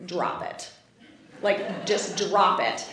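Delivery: low, hushed warning to drop it; warning mom. Retold or imitated. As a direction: imitate mom quietly shutting the subject down. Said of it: "she gets that look of".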